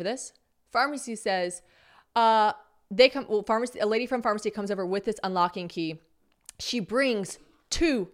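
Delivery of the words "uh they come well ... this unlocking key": ordinary talk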